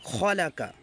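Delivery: rushed, clipped-short vowel; the wrong fast way to read it; quick reading. Shown as a demonstration. Teacher rushing the word to show the mistake. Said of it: "খলাকাটা দেখেন কত তাড়াতাড়ি পড়লাম".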